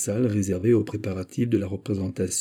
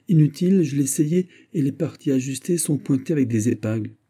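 flustered protest; 5 semitones higher than usual. Acted. Girl flustered, refusing the lord's demand. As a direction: brush him off in a rush.

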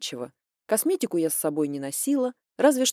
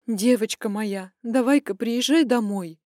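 pleading mother; 2 semitones higher, 4 dB louder than usual. Acted. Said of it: "почти взмолилась мама".

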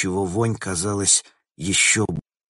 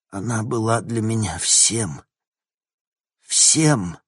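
anguished cry; 3 semitones higher, 3 dB louder than usual. Acted. Grieving husband cries out.

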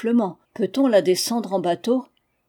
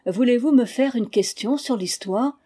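put-on higher, bright girlish question; eager young princess; 4 semitones higher than usual. Princess asking the narrator for a quiz, eager. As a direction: ask it like a keen pupil.

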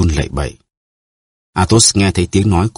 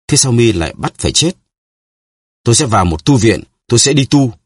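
pleading; 5 semitones higher than usual. A narrator's reading. Milady begs for her life.

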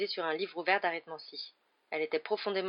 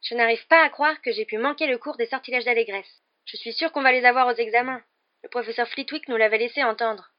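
high, loud, vexed complaint; worked-up, annoyed fretting; exasperated; 6 semitones higher, 7 dB louder than usual. A narrator's reading. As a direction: vent frustration in a raised voice. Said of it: "Elle semblait exaspérée".

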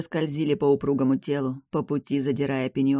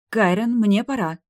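high squeak, louder; 7 semitones higher, 6 dB louder than usual. A narrator's reading. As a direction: squeak it out nervously. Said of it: "пискнула она".

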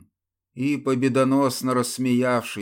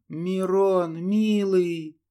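tearful sigh; 8 semitones higher, much slower than usual. Acted. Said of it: "она выдохнула, слёзы".

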